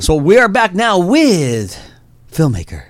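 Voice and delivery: mock-dramatic Batman announcer. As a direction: draw the introduction out slowly in a put-on Batman voice. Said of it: "Batman voice".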